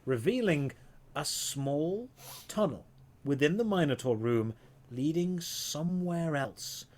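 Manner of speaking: measured storytelling with suspenseful pauses; game master narration. Acted. Game master revealing a hidden tunnel to players, suspenseful narration. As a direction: linger on key words to build suspense.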